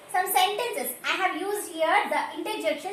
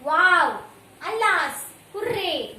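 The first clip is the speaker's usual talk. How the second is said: loud, punchy run of exclamations; teacher listing interjections with loud emphasis; exclaiming interjections; 6 dB louder, slower than usual. Shown as a demonstration. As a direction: call each word out with feeling. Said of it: "The words like".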